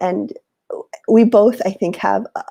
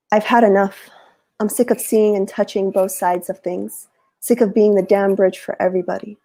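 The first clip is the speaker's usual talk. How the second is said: poem reading. Acted. Reading her favorite poem to her co-host, heartfelt. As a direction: read it like it's your own anger and resolve. Reads the Bridge poem aloud.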